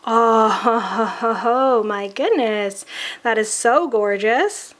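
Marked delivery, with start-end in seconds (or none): 0.1-2.9 delighted laugh. Real, not acted. Gushing over a gorgeous swatch.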